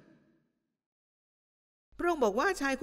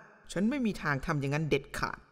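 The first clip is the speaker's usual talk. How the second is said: mock self-righteous vow; 6 semitones lower than usual. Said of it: "เราจะบอกว่า".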